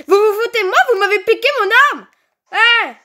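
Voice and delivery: loud indignant complaint; outraged protest. Real, not acted. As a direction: shout it, cheated and furious. Weapon stolen, protesting loudly.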